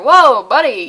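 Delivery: loud startled whoa; loud mock alarm. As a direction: pull the kid up short, loud. Adult startled by kid's answer.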